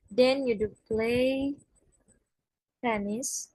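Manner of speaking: "do" stretched out with emphasis in a slowed example; stress on DO. Shown as a demonstration. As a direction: say it slowly, leaning on "do play". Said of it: "with emphasis".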